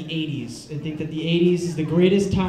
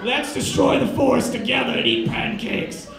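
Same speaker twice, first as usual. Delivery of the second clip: higher, put-on hearty lumberjack voice; mock lumberjack; 5 semitones higher than usual. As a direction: proclaim it like a cartoon lumberjack. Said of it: "he looks like a lumberjack".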